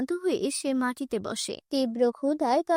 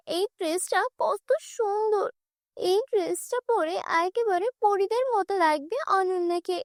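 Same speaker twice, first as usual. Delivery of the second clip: put-on admiring girl; 5 semitones higher than usual. Kabita admires dress.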